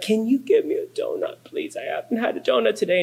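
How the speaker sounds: put-on high, sweet pleading child voice; little girl begging. Pastor imitates his five-year-old begging guests for a donut, high and pleading. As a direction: plead like a cute kid after a donut.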